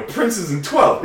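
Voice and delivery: high, loud, drawn-out street name; excited retold answer. Telling an old friend his street corner, excited. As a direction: announce the corner slowly with rising excitement. Acting own answer in story.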